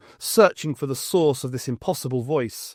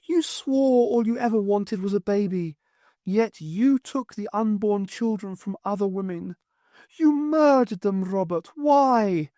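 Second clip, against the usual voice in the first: higher woman's voice, rising to a cry on murdered; higher, anguished Highland wife; accusing ghostly wife; 8 semitones higher than usual. Acted. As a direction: confront him with his crimes. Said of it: "the voice was that of Morag".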